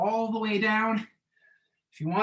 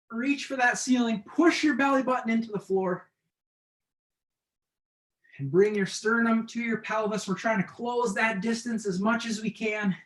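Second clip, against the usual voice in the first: straining through crunches; doing crunches; 2 semitones higher than usual. Real, not acted. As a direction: talk while crunching up. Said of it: "I think I need a break".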